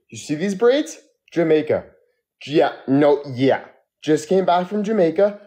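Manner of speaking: high, hyped bragging; hyped calling out. Pretend. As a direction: show off to passing drivers.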